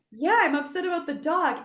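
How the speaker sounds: high-pitched, whiny confirmation; mock tearful agreement. Daughter lets mom believe it's the dog, mock tearful. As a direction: go along with it in a put-on upset voice. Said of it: "I was crying about the dog".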